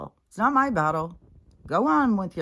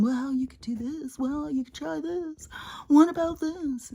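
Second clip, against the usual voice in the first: mock helpful advice; 9 semitones higher than usual. Mocking her own advice.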